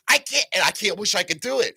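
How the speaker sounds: mock cartoon voice after the cannon; helium voice. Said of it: "it sounded like helium".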